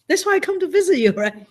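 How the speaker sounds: laughing through the words, high and quick; laughing retort to a grumpy brother. Retold or imitated. Sister laughing back at her sick brother.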